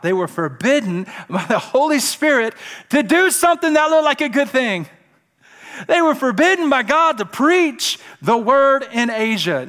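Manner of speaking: rising, loud scripture proclamation; impassioned preaching. Real, not acted. Preacher reading how they were forbidden, fervent and loud.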